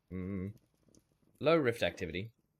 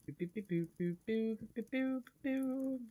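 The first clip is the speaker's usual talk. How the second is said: rising boops; 13 semitones higher, 4 dB quieter than usual. Pretend. Playful scanning noises.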